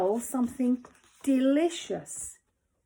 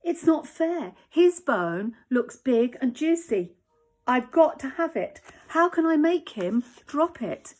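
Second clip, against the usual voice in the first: jealous whining; 3 semitones higher, 4 dB louder than usual. Acted. Jealous dog demanding.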